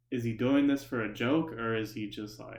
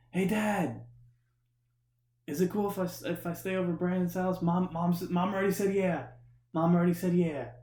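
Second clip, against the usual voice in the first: high, loud call to dad; mock screaming; 7 semitones higher, 5 dB louder than usual. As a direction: imitate a friend hollering into the garage. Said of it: "screaming at the top of his lungs".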